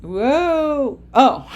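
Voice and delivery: high startled whoa, then a laugh; surprised whoa. Real, not acted. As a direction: caught off guard by a click, laughing. Surprised by the slide.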